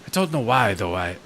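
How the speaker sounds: mild mock French accent. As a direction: give the gravekeeper a hammed-up French accent. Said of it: "Can I do a fresh French accent?".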